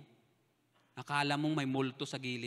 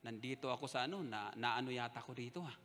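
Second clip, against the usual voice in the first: worried muttering; 4 semitones lower, 10 dB quieter than usual. Retold or imitated. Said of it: "sabi ko".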